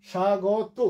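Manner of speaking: স্বাগত as sha-go-to, open vowel in গ; pronunciation demo. Shown as a demonstration. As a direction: say স্বাগত with a firm sh and silent ব. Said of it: "শুধু স এ একটু জোর পড়লো". (স্বাগত, শ-এ জোর দিয়ে উচ্চারণ)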